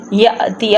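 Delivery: "یأتی" with a sudden catch after "ya"; jolt on hamza. Shown as a demonstration. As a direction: stop sharply on the hamza in "یأتی", then "ti". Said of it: "اب یہاں پہ ہم نے جھٹکا کیوں لگایا". ("یأتی" میں ہمزہ پر جھٹکا)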